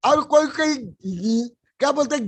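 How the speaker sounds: ordinary delivery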